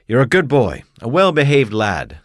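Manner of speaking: put-on the mayor talking down to the poor boy; stern mayor. Mayor scolding a poor boy, lightly pompous.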